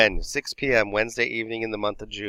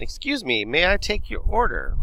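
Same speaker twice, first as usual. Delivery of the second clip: Mary trying to get attention; 8 semitones higher than usual. Acted. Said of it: "Mary, trying to get their attention".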